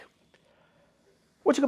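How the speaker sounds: slowed-down breathy whisper, leaning close. Acted. Sales coach urging listeners to check last month, in a slow whisper. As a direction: whisper it slowly, drawing them in. Coach drills review periods.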